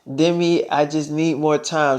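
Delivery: low, soft stalling; soft and hesitant. Retold or imitated. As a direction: beg for time quietly. Stalling Demi softly.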